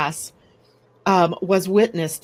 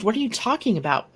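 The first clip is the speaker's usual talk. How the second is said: higher, quick baffled question; bewildered and higher-pitched; totally confused; 4 semitones higher, faster than usual. Retold or imitated. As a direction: ask it baffled, retelling your confusion. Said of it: "totally confused".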